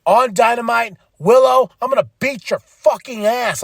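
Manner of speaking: hammed-up furious threat; mock threat. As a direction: threaten her opponent, fired up. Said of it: "she's like".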